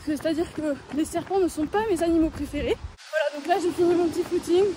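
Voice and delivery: talking while jogging; while running. Real, not acted. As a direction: speak mid-run, a bit breathy. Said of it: "je suis en train de courir".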